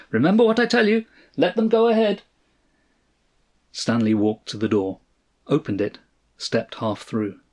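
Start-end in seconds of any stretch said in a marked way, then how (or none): 0.1-2.2 high, sustained, far-off call; fading, dreamlike phone voice. A narrator's reading. Friend's last words as the phone call fades, distant. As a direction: call it from far away, much higher and louder. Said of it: "Cross's voice faded like a dream".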